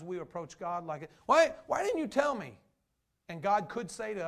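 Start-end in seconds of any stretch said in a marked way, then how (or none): 1.3-2.6 louder, higher whine of why didn't you; mock whiny complaint. Believer complaining to God, mock whiny outcry. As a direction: whine it like a grumbling child.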